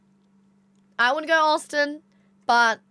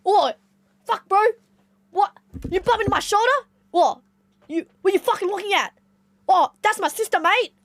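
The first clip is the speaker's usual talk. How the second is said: put-on high, loud Aussie eshay accent; hammed-up aggressive eshay lad; eshay impression; 8 semitones higher, 4 dB louder than usual. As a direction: pick a fight in Bankstown eshay slang. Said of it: "And you'll be like this".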